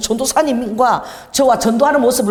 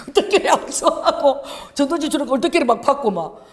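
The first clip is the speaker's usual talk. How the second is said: laughing; 5 semitones higher than usual. Real, not acted. Laughing while retelling.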